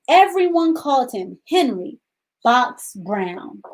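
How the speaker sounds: put-on gentle read-aloud for young children; storybook reading. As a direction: read the story to the class, unhurried. Teacher reads picture book aloud.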